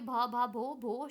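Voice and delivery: repeating भ and भो, unable to get past them; a frightened girl trying to say her name; stammering. Acted. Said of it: "she began to stammer". (हकलाती हुई आवाज़)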